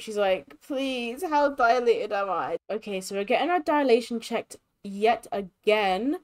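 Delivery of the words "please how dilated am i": mildly pleading acted voice; desperate pleading. Sim in labor asking for progress, mildly desperate. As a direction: plead a little, lightly acting desperate. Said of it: "she's kinda getting desperate".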